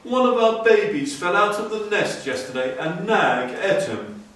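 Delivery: a small grieving bird cries out; Darzee the tailorbird. A narrator's reading. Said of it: "said Darzee".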